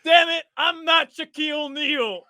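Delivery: high, exasperated snap; mock annoyed retort. Cornbread annoyed at a fan mistaking him, mock exasperation. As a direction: toss it back irritated over the shoulder. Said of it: "He says".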